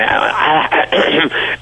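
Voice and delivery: high, broken-off yelp; imitated kicked reaction. Teen kicked by Arnold mid-greeting, imitated yelp. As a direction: mimic reacting to a kick under the table. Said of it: "and I went like that".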